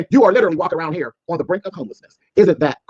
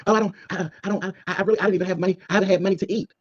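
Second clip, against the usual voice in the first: mock whiny plea; 5 dB quieter than usual. Mocking Rico pleading poverty.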